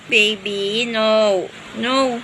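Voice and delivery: being tickled. Real, not acted. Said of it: "Nakikiliti ako".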